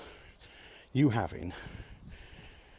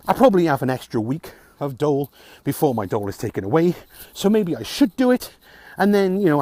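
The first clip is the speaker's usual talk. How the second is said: louder, rising frustrated rant; real exasperation building up; getting angry; 4 dB louder than usual. Real, not acted. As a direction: vent the anger at the system, louder. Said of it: "I've tried to record this vlog about six times now without getting angry".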